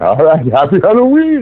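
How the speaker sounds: jolly, festive voice, very high-pitched. Saying goodbye to a caller, in a Santa Claus voice. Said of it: "That's my that's my Santa Claus voice".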